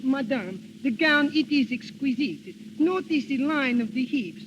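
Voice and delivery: a hint of a French couturier's accent, pitched as a sales pitch. Rehearsing his fake French couturier voice for Donald, light French accent. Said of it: "you can put on a little French accent".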